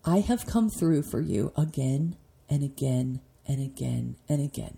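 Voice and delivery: a touch of real emotion, softly; emotional. Real, not acted. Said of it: "ooh, I'm gonna get emotional".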